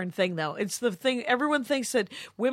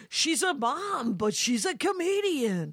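condescending quote; 4 semitones higher, slower than usual. Retold or imitated. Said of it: "was like".

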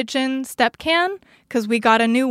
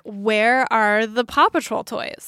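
Swedish-sounding; 2 semitones lower, slower than usual. Acted. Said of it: "sounds like you're saying a Swedish troll".

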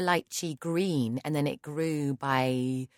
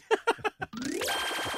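high breathy laugh. Real, not acted. Reacts to joke.

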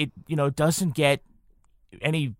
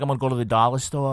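quick playful fake Boston accent; faster than usual. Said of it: "I love, like, faking it".

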